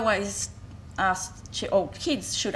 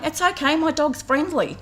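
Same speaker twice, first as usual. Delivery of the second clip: higher, louder mock of a breezy owner; dismissive dog owner; 8 semitones higher, 5 dB louder than usual. Mother at the oval waves off her dog's attack, mock breezy. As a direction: brush it off in a lightly voiced careless lady. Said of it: "she's going".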